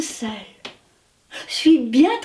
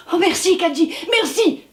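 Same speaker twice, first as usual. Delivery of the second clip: grateful Wasabu; 5 semitones higher than usual. Acted. Wasabu thanks Kanji.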